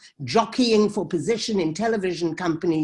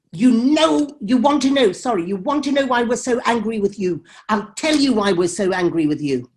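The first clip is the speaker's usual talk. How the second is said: raised, angry retort that eases off; retold shouting back; 2 semitones higher, 4 dB louder than usual. Activist shouting back at the filmmaker on the panel, retold angry shout. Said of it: "she then shouts back at me".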